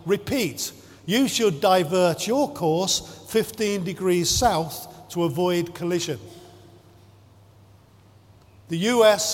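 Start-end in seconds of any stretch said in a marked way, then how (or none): 0.1-6.2 even, unbothered radio reply; calm reply. Retold or imitated. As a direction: stay level, don't rise to it. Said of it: "The Canadian voice calmly replied".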